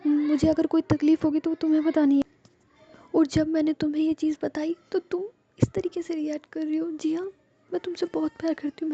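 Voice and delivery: high, hurt pleading; Ruhi, upset. A narrator's reading. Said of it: "वो रो रही होती है". (आहत होकर ऊँचे सुर में सफ़ाई देते हुए)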